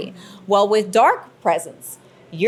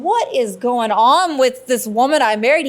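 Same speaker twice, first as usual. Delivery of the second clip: exasperated husband; 3 semitones higher, 3 dB louder than usual. Retold or imitated. Acting out her alarmed husband.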